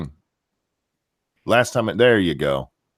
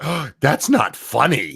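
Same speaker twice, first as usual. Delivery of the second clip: higher-pitched mock offence; mock outrage; 5 semitones higher than usual. Retelling how people lost their shit, mock outrage. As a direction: imitate people losing it over a joke. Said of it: "people lost their shit".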